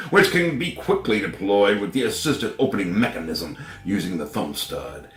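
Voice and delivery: commercial voice. Acted. Finishing the knife ad as a commercial announcer. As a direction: keep selling it like a TV spot. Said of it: "I should be doing commercials".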